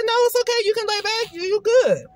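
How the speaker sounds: reassuring. Retold or imitated. Retells man's reassurance in car.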